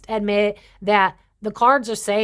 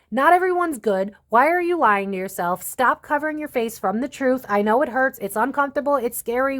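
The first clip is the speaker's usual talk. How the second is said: raised, firm scolding like a stern father; 4 semitones higher than usual. Real, not acted. Reader told off by a stern father figure, firm scolding. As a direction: lecture them firmly, like a dad fed up. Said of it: "I feel like a stern father right now".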